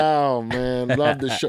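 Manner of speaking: put-on a slow, mild British accent reading a fan tweet. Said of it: "You, in the accent".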